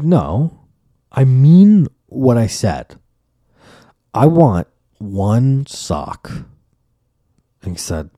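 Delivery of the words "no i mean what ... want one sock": slow, deliberate and firm; firm insistence. Retold or imitated. Grandma insisting on one sock, slow and firm. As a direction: stand your ground word by word. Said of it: "She said".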